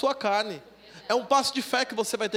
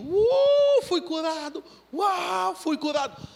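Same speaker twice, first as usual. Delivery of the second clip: high whoop, then happy cries; joyful exclamation; 8 semitones higher, 5 dB louder, much slower than usual. Retold or imitated. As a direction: celebrate being healed. Celebrating healing after parking. (exclamação alegre e aguda)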